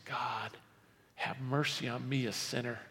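low, soft plea for mercy; penitent prayer. Acted. Sinner beats his chest praying to God, humble and hushed. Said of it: "he beats his chest and he says".

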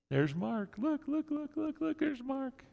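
silly mock voice. Pastor mocking people who only poke at God, squeaky. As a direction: play a giddy child poking a friend.

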